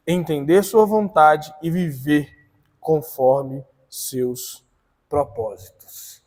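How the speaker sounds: measured read-aloud, firm start slowing at the close. Real, not acted. Teacher reads the lesson introduction to the class, measured read-aloud.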